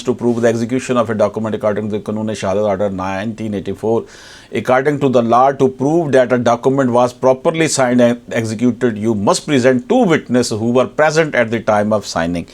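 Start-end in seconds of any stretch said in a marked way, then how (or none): 4.6-12.4 slow formal reading. Acted. Reads English legal rule aloud.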